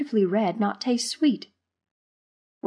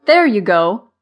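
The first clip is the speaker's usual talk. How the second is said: loud, amused encouragement; chuckling; 2 semitones higher, 10 dB louder than usual. A narrator's reading. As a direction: cheer a grumpy friend on, amused. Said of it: "Marva chuckled".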